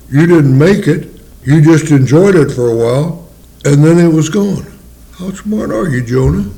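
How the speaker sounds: lightly voiced God, pleading and reasoning; voicing God. God reasoning with Jonah, lightly voiced and earnest.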